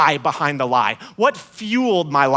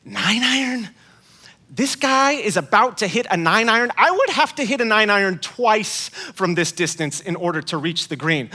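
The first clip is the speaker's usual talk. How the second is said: can't believe what he just heard; incredulous inner voice; 3 semitones higher than usual. Retold or imitated. Inner reaction to his friend's nine iron, mildly incredulous. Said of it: "I'm thinking".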